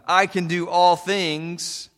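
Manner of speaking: I can do all things, said slowly and leaned on; emphasized first half. Shown as a demonstration. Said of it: "Cats tend to like".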